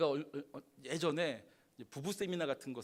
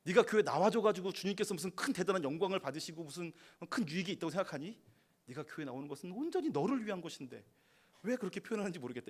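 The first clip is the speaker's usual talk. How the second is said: inner anger; 4 semitones higher, 4 dB louder than usual. Retold or imitated. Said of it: "부르르 화가 나는".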